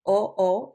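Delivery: "O, O" said as two strong isolated vowels; emphasised vowel. Shown as a demonstration. Teacher pointing out the accented vowel, emphatic "O, O". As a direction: punch each "O" on its own. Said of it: "putting emphasis on that vowel".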